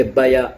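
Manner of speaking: بیا with a full "a" after the y, as ba-ya; wrong full-vowel reading. Shown as a demonstration. Teacher warns against voweling the letter, بیا as two syllables. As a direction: give the yaa of بیا a whole vowel. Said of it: "یہ نہیں".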